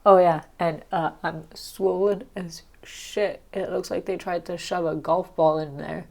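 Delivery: stuffy, blocked nose; congested. Real, not acted. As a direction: talk through a swollen, congested nose. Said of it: "I feel congested".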